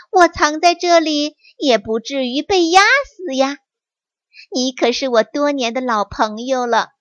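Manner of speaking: high, knowing fox voice; crafty fox, sure of itself; sly fox. Acted. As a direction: fox answering as if it's obvious. Fox voice in story.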